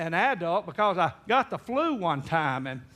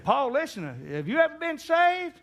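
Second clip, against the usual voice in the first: higher, urgent question; earnest plea; 10 semitones higher than usual. Retold or imitated. Grandson urges grandpa to get saved, earnest and high. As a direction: press him with an eager plea.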